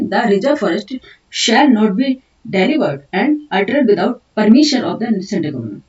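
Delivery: slow, deliberate dictation of English notes. Acted. Teacher dictating notes to students, slow and deliberate. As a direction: dictate each word so students can write.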